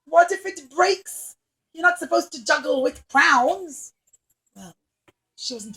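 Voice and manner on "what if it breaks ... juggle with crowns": worried clown. Acted. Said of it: "And the clown said".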